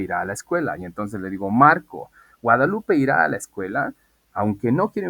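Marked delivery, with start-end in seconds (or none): 1.5-3.9 calling out a name. Shown as a demonstration.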